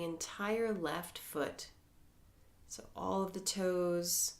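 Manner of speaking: calm, measured meditation voice with long pauses; guided meditation. Acted. Teacher leading members through a mindfulness body scan, calm guided meditation.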